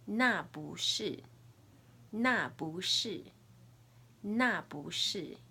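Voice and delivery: slow, careful tones on 那不是; Mandarin model phrase. Shown as a demonstration. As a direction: say 那不是 slowly, tone by tone, for repeating. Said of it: "Repeat after me".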